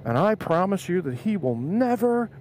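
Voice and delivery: slow, emphatic vow; retold solemn promise. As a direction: voice a mother promising earnestly.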